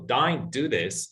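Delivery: Australian Don't with an open "dine" vowel, slow; slow Australian demo; Australian accent. Shown as a demonstration. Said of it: "is the same as".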